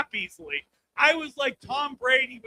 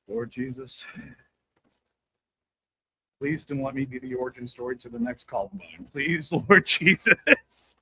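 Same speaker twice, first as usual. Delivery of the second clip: mock desperate prayer; 12 semitones lower than usual. Praying every day about the kid, low pleading voice. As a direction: beg the Lord from deep down.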